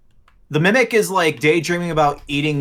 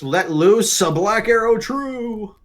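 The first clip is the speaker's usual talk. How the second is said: high, drawn-out heroic flourish; heroic declaration; 6 semitones higher, slower than usual. Acted. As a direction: stretch it out, climbing in pitch to the end. Player declares shot in heroic flourish.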